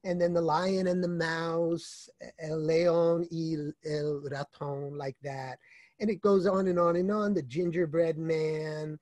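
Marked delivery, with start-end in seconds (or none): 2.4-5.0 slow, careful Spanish title; Spanish pronunciation. Real, not acted. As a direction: say it slowly in Spanish. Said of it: "My Spanish accent is poor".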